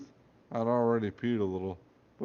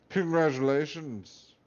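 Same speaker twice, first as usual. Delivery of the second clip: slow Scottish congratulations; 4 semitones higher, 4 dB louder, slower than usual. Acted. Hat congratulating boy.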